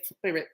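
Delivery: "spirit" with a drawn-out lisped opening s. Retold or imitated. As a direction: lisp the s in "spirit". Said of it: "I really did just say".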